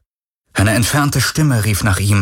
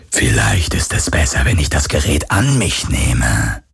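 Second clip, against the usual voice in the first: menacing phantom; 6 semitones lower than usual. A narrator's reading. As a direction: let it drip with dark amusement. Phantom threatens to take device.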